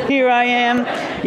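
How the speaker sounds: marching villain entrance. Retold or imitated. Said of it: "he comes around the corner and he's marching".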